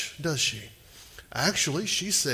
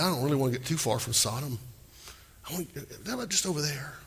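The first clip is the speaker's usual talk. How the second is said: hurried mumble; 8 dB quieter, much faster than usual. Retold or imitated. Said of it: "He said".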